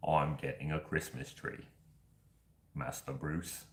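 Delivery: low, soft British actor impression; Michael Caine. Telling Master Bruce about the Christmas tree, low Michael Caine impression. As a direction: lightly put on an old butler's measured English voice. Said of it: "put on my best Michael Caine".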